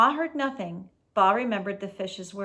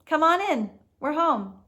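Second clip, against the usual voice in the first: excited welcome; 7 semitones higher, 6 dB louder than usual. Acted. Boy welcoming them home.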